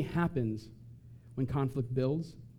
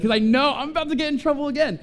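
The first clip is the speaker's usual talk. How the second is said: laughing aside; 10 semitones higher, 6 dB louder than usual. Real, not acted. Laughing aside after jab.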